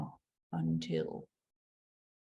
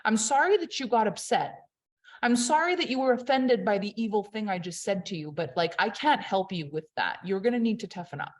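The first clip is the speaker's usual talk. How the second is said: fake apology. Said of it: "The power play is".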